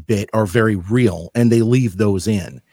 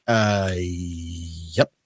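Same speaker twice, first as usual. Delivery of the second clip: baffled Clarkson; 5 semitones lower, 7 dB quieter than usual. Retold or imitated. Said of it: "Jeremy Clarkson's just standing there like".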